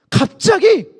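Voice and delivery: ordinary talk, nothing marked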